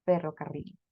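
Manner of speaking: ferrocarril with the R trilled against the palate; rolled Spanish R. Shown as a demonstration. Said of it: "Podemos decir una vez más". (ferrocarril con erre vibrante)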